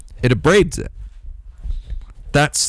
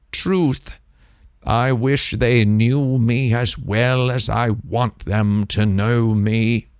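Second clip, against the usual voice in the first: mock dreamy Mimsy; slower than usual. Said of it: "Mimsy's always saying stuff like".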